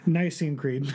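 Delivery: brisker, surer delivery; quick and confident. Shown as a demonstration. Co-host following his partner's advice, quick and confident. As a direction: say it straight through without hesitating. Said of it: "quick and confident".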